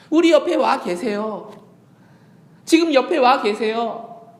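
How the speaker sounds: 우리 and 지금 stressed loud and slow; slow emphatic. Acted. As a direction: press each word home. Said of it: "emphatic repeated claim". (힘주어 천천히)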